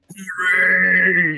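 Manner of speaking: booming, drawn-out godlike voice. Narrating to the players Mendax and Call, a voice from the darkness: booming godlike voice. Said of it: "booming, godlike voice appears from essentially the darkness".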